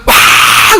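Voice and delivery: long, drawn-out crowd cheer; mock fan cheer. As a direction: play the side that scored. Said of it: "골인을 넣은". (골 넣은 편의 긴 환호 흉내)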